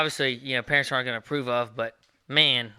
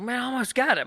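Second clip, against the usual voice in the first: giggling; 10 semitones higher than usual. Retold or imitated. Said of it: "like, giggling".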